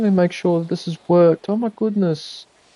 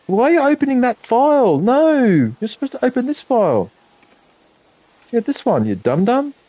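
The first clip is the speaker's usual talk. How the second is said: scolding oneself; 5 semitones higher than usual. Real, not acted. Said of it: "talking to myself".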